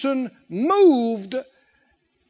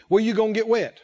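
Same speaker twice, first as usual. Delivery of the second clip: ordinary delivery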